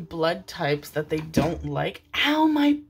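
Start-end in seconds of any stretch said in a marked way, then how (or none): 2.2-2.8 startled yelp. Real, not acted. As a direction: yelp as a mosquito bites you. Mosquito bites her mid-sentence.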